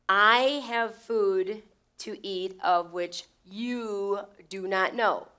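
slow emphatic read, leaning on the pronouns I and you; stress on I. Shown as a demonstration. Preacher stressing the pronouns to the congregation, slow and emphatic. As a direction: push the word "I" hard and drag it slowly. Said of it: "think of the pronouns here".

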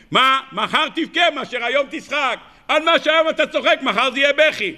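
high, laughing mock warning; laughing retort. Preacher voicing the Vilna Gaon's warning, laughing and high. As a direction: tease them through laughter.

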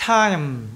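"Time" with a full long I glide into M; clear middle glide. Shown as a demonstration. Teacher modelling correct speech, full glide in "Time". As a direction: draw out the I in "Time". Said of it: "nghe rõ được cái âm I".

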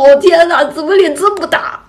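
high, loud dismayed exclamation; retold shock. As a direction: recoil from your own reflection. Retold shock at own reflection. (夸张复述照镜子时的震惊)

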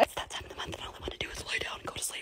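soft, worn-out whisper; too tired to speak up. Real, not acted. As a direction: breathe it out, drained. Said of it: "I'm not feeling good today".

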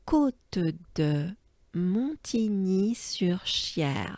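Côte de Montigny-sur-Cher whispered slowly in one breath; slow whole-name demo. Shown as a demonstration. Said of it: "let's take a good breath".

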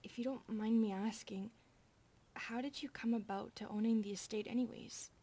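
hushed, careful whisper. Acted. Maid in bed asking the master about the estate, whispered.

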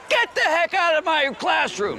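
high, loud, drawn-out yell; angry shout. Retold or imitated. Teacher throws student out of the classroom, angry shout. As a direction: bellow it slowly like a fed-up teacher.

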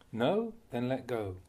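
slow and measured, each word set apart; slow maxim. Shown as a demonstration. Teacher giving students a simple rule, slow and measured. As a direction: lay out the maxim slowly and deliberately. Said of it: "To put it simply, we say just this".

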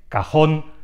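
"cajón" with the final jón stressed; stress on last syllable. Shown as a demonstration. Teacher giving a second aguda example, final-syllable stress. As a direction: put the weight on "jón" in "cajón". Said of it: "tiene el golpe de voz en la misma posición".

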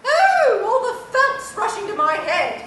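high laughing exclamation. Acted. Laughs in the bear's voice.

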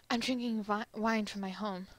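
bad, half-hearted French accent; terrible French accent. France tells America he's drinking wine, bad French accent. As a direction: lightly attempt a French accent. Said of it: "that's a terrible French accent".

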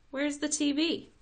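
high loud disbelieving question; a boy shocked there is no TV; shocked kid. A narrator's reading. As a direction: demand it in disbelief. Crash shocked at no TV.

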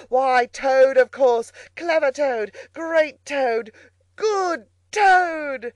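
loud, high boasting as Toad; ecstatic self-admiration. A narrator's reading. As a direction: crow triumphantly, praising yourself to the skies. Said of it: "he cried in ecstasies of self-admiration".

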